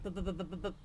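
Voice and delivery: motorcycle noise. A narrator's reading. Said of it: "making noises with his mouth".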